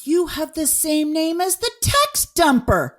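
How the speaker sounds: excited reveal. Real, not acted. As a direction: savor the big reveal.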